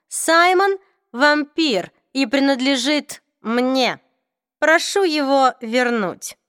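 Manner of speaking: drawn-out, aloof vampire lord; cold vampire voice. Acted. Raphael the vampire speaks.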